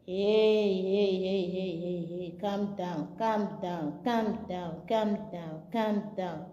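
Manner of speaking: quiet calming murmur; soft low soothing. Real, not acted.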